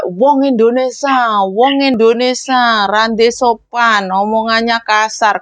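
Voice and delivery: slow, disdainful complaint; foreigners scoffing. Retold or imitated. Employers abroad slowly mocking rude Indonesians. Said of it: "Jangan sampai".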